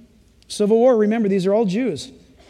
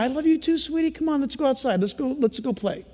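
softer, gentle daddy voice; tender father; 4 semitones higher, 4 dB quieter than usual. Retold or imitated. Father soothing forgiven child on his lap, softly. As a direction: soothe the little one softly.

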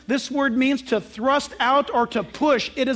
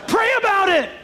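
laughing mock order; 8 semitones higher, 3 dB louder than usual. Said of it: "what does he say".

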